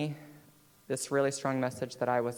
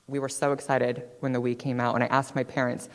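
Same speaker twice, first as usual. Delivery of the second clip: usual speaking voice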